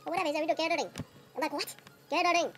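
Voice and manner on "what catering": high, louder, exasperated shout; exasperated yelling. Retold or imitated. Comedian retelling his meltdown at the Indian waiter, exasperated yelling. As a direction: lose it completely, throwing up your hands. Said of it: "we were shouting".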